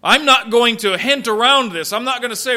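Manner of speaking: blunt and forceful; pulling no punches. Acted. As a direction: refuse to hedge, straight at them. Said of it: "without pulling any punches says".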